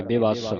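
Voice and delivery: ਬਿਵਸ ending in held "ss"; doubled s. Shown as a demonstration. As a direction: model ਬਿਵਸ as "bi-VASS". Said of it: "ਅਧਿਕ ਲਾ ਕੇ".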